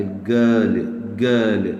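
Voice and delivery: गर्ल with a long central vowel, no r; British "girl", silent r before l; British non-rhotic pronunciation. Shown as a demonstration. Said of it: "तो हम इसको नहीं पढ़ेंगे".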